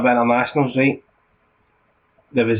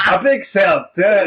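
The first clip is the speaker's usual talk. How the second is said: higher-pitched fake Albanian accent; put-on Albanian accent; 7 semitones higher, 3 dB louder than usual. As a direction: bluff along as a pretend Albanian. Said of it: "I can't put this on".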